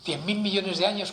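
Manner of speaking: joke-teller lightly voicing a man at prayer; lightly acted petitioner. Acted question to God in a joke.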